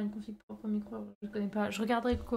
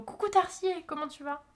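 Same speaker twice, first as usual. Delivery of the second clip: cheerful greeting; 6 semitones higher than usual. Real, not acted. Greeting a viewer in chat.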